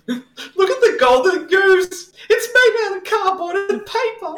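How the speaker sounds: hammed-up wonder at a cardboard goose; mock amazement. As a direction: gush like a wide-eyed child. Mock awe at golden goose.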